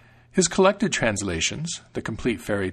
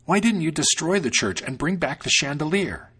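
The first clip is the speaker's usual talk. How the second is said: scolding; 5 semitones higher than usual. Acted. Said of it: "the cook scolded".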